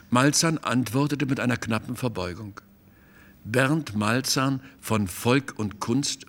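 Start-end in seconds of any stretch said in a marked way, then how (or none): 3.4-6.2 incredulous. Acted. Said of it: "fragte Theo Busbeck ungläubig".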